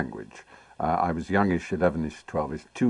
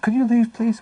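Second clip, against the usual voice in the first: prim dismissal; 5 dB louder than usual. Retold or imitated. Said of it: "she said".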